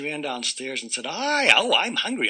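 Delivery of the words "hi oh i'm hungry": high, bright eager greeting; cheerful wake-up. Acted. Amy bounding downstairs, high and eager. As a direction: burst in full of energy.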